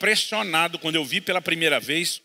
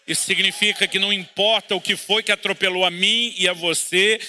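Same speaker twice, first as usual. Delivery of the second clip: louder, higher, full-force preaching; preaching shout; 3 semitones higher, 4 dB louder than usual. Real, not acted. Pastor applies the verse to the church, shouting. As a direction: drive the promise home to the congregation. Sermon climax, applying the lesson.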